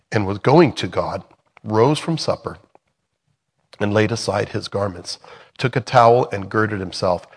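steady, measured Bible reading voice; scripture reading. Acted. Teacher reading John chapter thirteen to the study group, measured reading voice. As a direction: read the passage aloud to the class, clearly and evenly.

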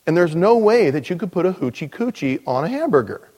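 a hammed-up know-it-all; cocky believer. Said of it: "there are those that just said".

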